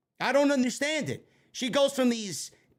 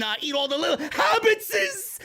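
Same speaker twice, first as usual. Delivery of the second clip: a light, higher shouted Gollum snarl; brief mock Gollum; 4 semitones higher than usual. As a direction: gobble up the hobbits, hungry. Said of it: "exactly what she sounds like".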